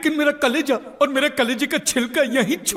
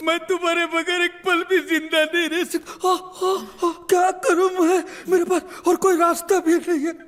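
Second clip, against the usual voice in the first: hammed-up weeping lament, pitched up; fake tearful farewell; 3 semitones higher than usual. Uncle bidding his nephew farewell in hammy tears. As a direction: sob it out to the boy, overdoing the grief.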